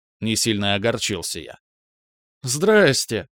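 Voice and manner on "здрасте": giggling. Acted. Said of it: "хихикнула Браилова".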